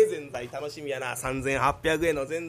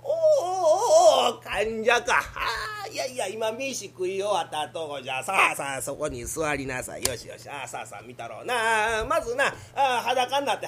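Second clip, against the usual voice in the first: put-on old doctor; 5 dB louder than usual. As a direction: play a fussy old country doctor.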